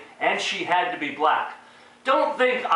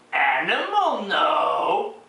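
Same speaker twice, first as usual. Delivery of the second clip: Animal; much slower than usual. Acted. Dumb Muppet bragging he knew, slow sing-song caveman tone. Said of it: "literally in this tone".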